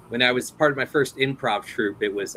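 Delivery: ordinary talk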